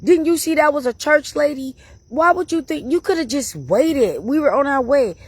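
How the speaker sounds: high, scolding why would you; scolding the friend, voice up high; retold exasperation. Scolding her friend after being kicked out, high exasperated. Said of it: "I was like".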